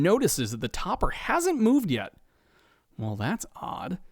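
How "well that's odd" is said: soft, slow, lower mutter; puzzled, under the breath. A narrator's reading. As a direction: mutter it to yourself. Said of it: "he mutters to himself".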